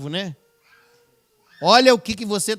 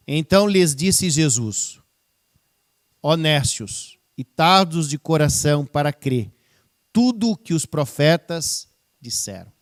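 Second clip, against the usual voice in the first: scripture reading; 3 semitones lower, 4 dB louder than usual. Acted. Pastor reading Luke to the congregation, solemnly. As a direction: read the verse out with weight. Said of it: "quero agora ler novamente esse texto".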